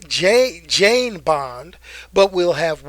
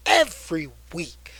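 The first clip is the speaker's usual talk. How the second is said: whispered echo. Shown as a demonstration. Echoing himself to viewers, whispered. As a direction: whisper it, breathy and secret.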